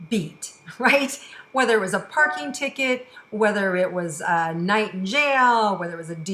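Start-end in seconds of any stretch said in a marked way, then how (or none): 0.1-1.2 laughing through the words; breaking into a real laugh; laughing while talking. Real, not acted. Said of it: "I'm laughing because".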